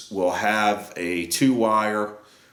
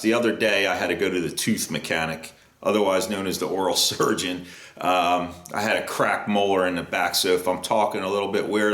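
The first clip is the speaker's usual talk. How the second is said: speaking through a swollen jaw; slightly slurred swollen mouth. Real, not acted. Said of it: "My mouth is all swollen".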